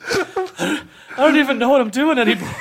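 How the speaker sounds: high, loud words through laughter; helpless laughter. Real, not acted. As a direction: laugh it out, barely able to speak. Co-host cracks up laughing.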